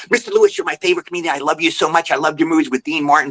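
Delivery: quick fan gush, lightly acted; eager rambling praise, mildly rushed; gushing ramble. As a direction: retell a nervous fan rattling on. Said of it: "And I rambled on".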